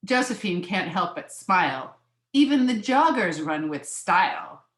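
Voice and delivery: measured picture-book reading; lilting read-aloud of a children's book; story narration. A narrator's reading.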